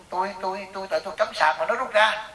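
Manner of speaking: high, stammering mock protest; imitated angry complaint. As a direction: act out an aggrieved woman pleading her case. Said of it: "nó chửi con Mỹ mập này". (giả giọng bực tức phân bua, lên cao)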